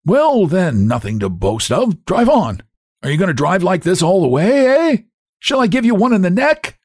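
high, cracked, impatient scolding; high-voiced peevish demands; bullying hunchback. A narrator's reading. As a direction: threaten the driver, pitch climbing. Hunchback bullies the cab driver.

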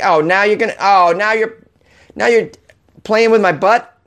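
high-pitched, put-upon horse's complaint; indignant horse. Acted. Host voicing a horse sick of riders, high mock indignation.

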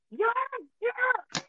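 high, loud excited yell; retold kid's yell. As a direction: yell it like a thrilled kid at a wrestling show. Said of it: "she yells".

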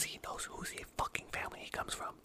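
whispering a spoiler; quiet at night. Real, not acted. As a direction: secret unvoiced whisper. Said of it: "Sorry, I have to whisper".

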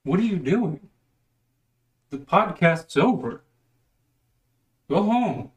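playful loud telling-off; mock scolding. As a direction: shoo the lingering viewers away. Shooing viewers after the show.

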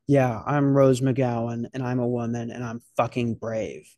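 a hint of a solemn, spaced-out self-declaration; Rose McGowan impression. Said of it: "I just said it exactly how she said it".

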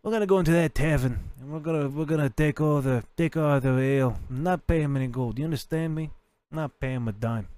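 lightly voiced mob boss; goblin mafia boss. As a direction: swagger like a goblin don. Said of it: "I'm like".

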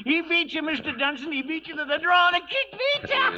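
high, gleeful crowing; gleeful gloating. Acted. Old hand taunts Dunson after the draw, gleefully. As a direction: crow over the boss being beaten.

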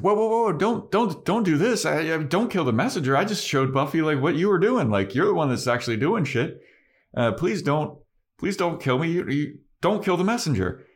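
hammed-up terrified plea; pleading Spike. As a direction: beg for your life, fast and squeaky. Spike begging Riley for life.

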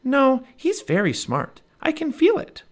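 put-on high, slow, insistent young girl; little girl voice. A narrator's reading. Narrator voices Annie.

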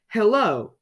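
high, loud, cheery hail; grinning greeting. A narrator's reading. Mister Happy meets Mister Grumpy again, grinning. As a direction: greet through a big grin. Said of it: "grinned Mister Happy".

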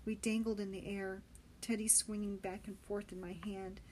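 ordinary delivery

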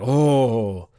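low, halting mock-solemn pronouncement; hammed-up solemn naming, sinking in pitch; mock tribal naming. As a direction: intone it slowly and low, pausing between phrases. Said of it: "they're like".

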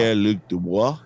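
"Pierre-Luc Dubois" said deliberately, rising on Dubois; owning the name. Shown as a demonstration. Showing cohosts how to own the French name, deliberate. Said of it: "you gotta really own it".

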